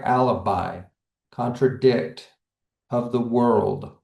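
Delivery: "alibi, contradict, of the world", each weighted on the final syllable; two light beats, then a stress: al-i-BI, con-tra-DICT, of the WORLD; stress on last syllable. Shown as a demonstration. Teacher giving anapest examples, stress on last syllable. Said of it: "two unstressed followed by the stressed".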